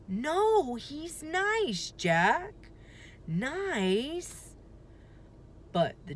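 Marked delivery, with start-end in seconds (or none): 0.1-4.5 high, lightly voiced insistent girl; insisting girl. A narrator's reading. Annie insisting to Jack the dinosaur is nice, girlish. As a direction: insist it gently.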